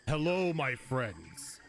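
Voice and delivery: slow booming ogre greeting; bellowing. Acted. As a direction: bellow it out slowly like a big ogre. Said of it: "lets out just this bellowing".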